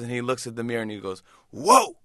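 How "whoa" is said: high, loud surprised whoa; a burst of delighted shock; loud astonished whoa; amazed whoa. Retold or imitated. Bruce sees himself in mirror.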